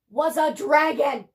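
slow, loud reveal; dramatic reveal. A narrator's reading. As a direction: land the reveal big and slow. Dramatic reveal, then whispered retake.

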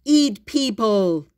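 loud, slow monster voice; deep muffled sea monster. Acted. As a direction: growl it like a hungry beast. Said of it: "said the sea monster".

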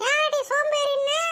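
drawn-out, indignant challenge; indignant retort. Acted. Woman hurling an insult back at her neighbour, indignant. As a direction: stretch out the angry comeback. Angry retort in acted quarrel.

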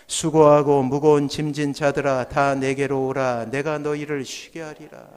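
low, measured Bible recitation; scripture reading aloud. Real, not acted. Preacher leads congregation reading Matthew's verse aloud, measured recitation. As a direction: lead the congregation through the verse, low and deliberate. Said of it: "우리 같이 한번 읽어봅니다".

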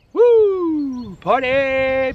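high, loud celebratory whoop; party cheer. Real, not acted. Celebrating with a drink in bubble.

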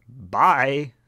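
loud high cartoon goodbye; shouted farewell. Reshiram fleeing with a silly shout. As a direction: yell it cheerfully. Comic shout as dragon leaves.

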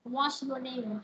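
"name" glides down at the end; falling tune on name. Shown as a demonstration. Teacher repeats the WH question example, falling tune. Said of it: "chữ name nó đi xuống".

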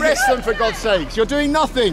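high-pitched pretend demand; mock outrage. Man jokingly urging idle police to arrest the kids, mock outrage.

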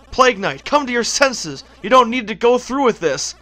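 lightly acted, earnest plea; game character voice. Mona urging Plague Knight to come to his senses, pleading. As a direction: plead with a slightly lifted voice. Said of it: "now I'm gonna do the voices".

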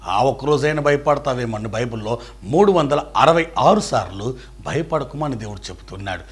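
ordinary talk, nothing marked

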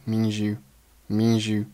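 "means you" run together, the s melting into the y; assimilation. Shown as a demonstration. Teacher showing learners assimilation, "means you" fused at the s-y join. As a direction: blend "means you" into one unit, like "meanzhu". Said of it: "means和you发生了同化的现象".

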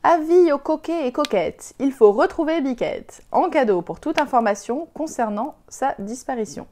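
avis proclamé plus haut et plus fort, comme un crieur; annonce criée. Acted. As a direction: lis l'affiche comme un crieur de village. Affiche lue à voix haute. (proclamation de crieur public)

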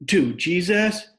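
high, slow, loud cry to heaven; high wild scream. A narrator's reading. Willie Mae screaming at the gunshot, high and wild. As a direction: let it tear out high and wild. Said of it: "her voice high and wild".

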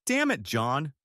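a light angry snarl. Acted. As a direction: snap out the name in anger. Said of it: "she snarled".

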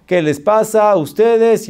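high, slow, drawn-out indignation; stressed anger. Retold or imitated. Stressed customer confronting the owner, indignant. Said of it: "el nivel de estrés que".

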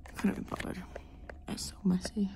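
unvoiced whisper. Real, not acted. Vlogger whispering alone in her lesson.

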